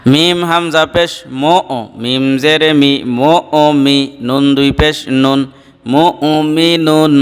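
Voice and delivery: measured, level spelling chant with held endings; recitation drill. Shown as a demonstration. Teacher leading students letter by letter, measured recitation drill. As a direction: chant the spelling, then draw out the joined word.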